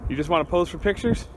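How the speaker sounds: slightly winded; breathing hard between words. Real, not acted. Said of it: "Sorry, I'm a little out of breath".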